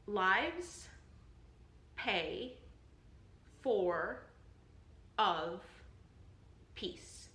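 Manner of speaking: "Lives", "pay", "for", "of", "peace" each punched alone, long gaps between; stressed syllables only. Shown as a demonstration. Teacher leading the class through stressed beats, isolated stresses on "Lives pay for of peace". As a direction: beat out "Lives pay for of peace" one word at a time. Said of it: "These are the five stress syllables in this line".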